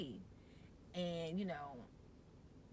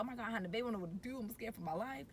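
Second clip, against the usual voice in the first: fast, a touch higher, half-joking fear; mock scared; 4 semitones higher, much faster than usual. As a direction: rush it like a nervous new mom. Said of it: "I was like".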